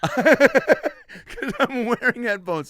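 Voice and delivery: very loud, high and drawn out; headphone shouting. Acted. Passenger in headphones to seatmate, oblivious shouting. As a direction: shout slowly as if deaf to your own volume. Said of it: "I'm letting everyone know".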